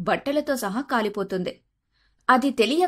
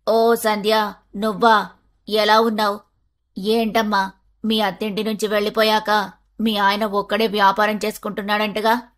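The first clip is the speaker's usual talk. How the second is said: grasping neighbour auntie voice; greedy auntie. Acted. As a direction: fawn then ask for a loan. Greedy neighbour asks loan.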